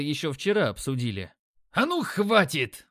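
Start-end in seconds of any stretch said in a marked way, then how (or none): 1.7-2.9 high, slow barking yell; barking gym coach. A narrator's reading. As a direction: bark to stop the fight. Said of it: "рявкнул тренер".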